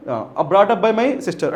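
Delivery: slow, careful English reading. Shown as a demonstration. Teacher quotes option A slowly to students. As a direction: read it out word by word.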